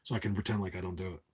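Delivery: talking while exhaling vape; words pushed out through a lungful of smoke. Real, not acted. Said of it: "let me take a hit of my vape".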